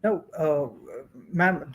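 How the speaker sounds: ordinary talk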